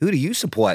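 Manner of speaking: put-on American accent, for show. Told to say it as an American, speaker asks the question in an American accent. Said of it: "say an American".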